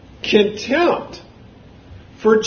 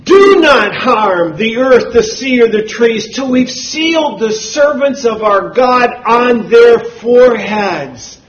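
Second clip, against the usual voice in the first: angel's loud command, mildly raised; forceful scripture quote in a raised voice; loud cry; 5 dB louder than usual. Acted. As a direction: read it out loudly, stretching the opening command. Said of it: "he cried with a loud voice".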